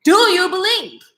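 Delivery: voicing Jesus. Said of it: "guess what he said".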